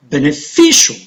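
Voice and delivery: be-ne-FI-cial, weight on FI in "Beneficial"; stress on third syllable. Shown as a demonstration. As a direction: punch the FI in "Beneficial". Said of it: "The stress is on the syllable just before".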